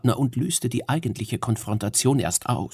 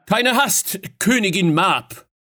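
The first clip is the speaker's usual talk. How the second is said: much higher, raised urgent call; urgent appeal; 9 semitones higher, 4 dB louder than usual. Acted. Fionn urges Queen Mab to stop, raised and urgent. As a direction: hold her back before swords move.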